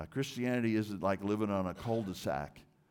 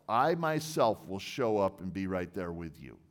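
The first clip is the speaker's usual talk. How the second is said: ordinary talk, nothing marked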